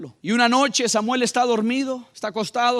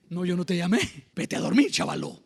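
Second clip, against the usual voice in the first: mildly sweet, lower-pitched reply; gentle dismissal; 3 semitones lower than usual. Acted. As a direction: send the boy back to bed kindly. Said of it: "la respuesta de Elí era tan, tan dulce". (respuesta dulce y suave, a media voz)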